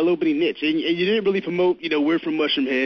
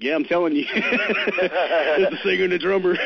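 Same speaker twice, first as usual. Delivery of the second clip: laughing; 4 semitones higher, slower than usual. Real, not acted. Laughing while insisting to disbelievers.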